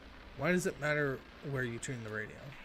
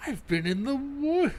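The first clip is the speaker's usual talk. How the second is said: breaking into laughter; 12 semitones higher, 9 dB louder than usual. Real, not acted. Rereading line, breaks into laughter.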